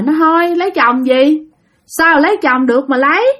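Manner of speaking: lightly voiced possessive spirit; possessed grandmother refusing. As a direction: object as the jealous ghost. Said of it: "Nói vậy đó các bạn".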